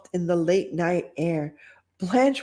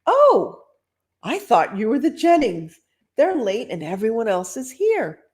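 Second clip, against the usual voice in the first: party host; 4 semitones higher than usual. Acted. Host talking to girl.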